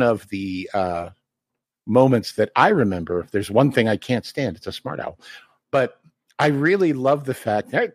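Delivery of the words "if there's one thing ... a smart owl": lightly voiced grumpy old turtle; a hint of a cranky old man. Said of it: "the turtle talks like this".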